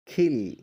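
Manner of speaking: کھل said loud with a short i; demonstrating pronunciation. Shown as a demonstration. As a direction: model کھل clearly and firmly. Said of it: "اسی طرح". (کھل کا واضح تلفظ)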